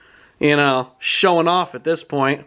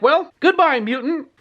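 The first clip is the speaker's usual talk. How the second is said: mocking kid hero; 10 semitones higher than usual. Kid hero mocks the villain.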